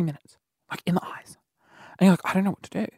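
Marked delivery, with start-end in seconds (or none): 2.3-2.9 softer, understated confusion; mutedly unsure what to do; retold uncertainty. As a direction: say it softly, at normal pitch. Retold first uncertain reaction.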